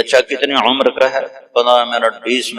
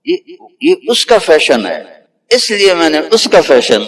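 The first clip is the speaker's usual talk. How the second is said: put-on the boy's voice; 6 semitones higher than usual. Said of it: "کہا".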